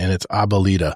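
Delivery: normal talking voice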